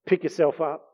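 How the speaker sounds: loud, high, rallying call to a fallen friend; a friend cheering you back on your feet; urging encouragement. Retold or imitated. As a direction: lift them up with fired-up encouragement. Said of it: "someone comes alongside us and says".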